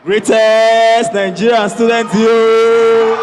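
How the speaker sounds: loud, slow rallying call that swells on you; slow, loud student rally cry; slogan call. Real, not acted. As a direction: call the crowd to answer.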